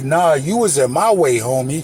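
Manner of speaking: plain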